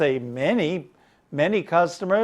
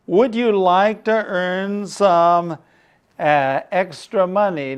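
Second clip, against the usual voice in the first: slow and clear; 3 semitones higher than usual. Shown as a demonstration.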